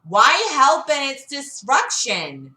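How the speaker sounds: hint of a woman's voice. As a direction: press him as Gamora. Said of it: "she asks".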